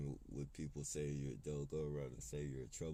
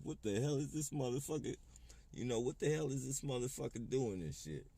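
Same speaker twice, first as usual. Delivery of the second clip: higher, louder mock panic at the angry man; lightly voiced startled driver, poking fun; mocking alarmed driver; 6 semitones higher, 3 dB louder than usual. Mocking the other drivers' reaction.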